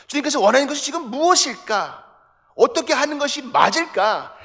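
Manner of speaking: loud, driving sermon voice; fervent preaching. Acted. Pastor urging the congregation to listen in prayer, loud. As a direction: preach it out to the whole church.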